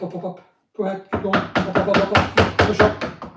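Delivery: ordinary delivery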